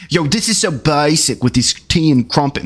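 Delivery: lightly mocking British rap accent; silly British rapper. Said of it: "You sound silly when you rap".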